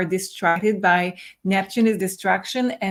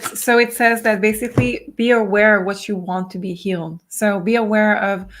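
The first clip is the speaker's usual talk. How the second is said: losing her voice, hoarse and strained; 4 dB louder than usual. Real, not acted. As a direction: talk through a hoarse, failing voice. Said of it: "I'm losing my voice".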